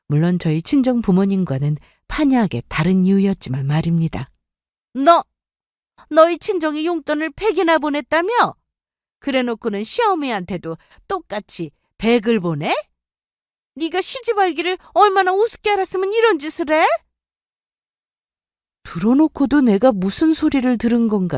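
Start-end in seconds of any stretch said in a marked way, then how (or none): 4.9-16.8 shrill, high scolding mother-in-law. Acted. Mother-in-law berates her son's wife on the phone, angry and high. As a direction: sneer at the daughter-in-law.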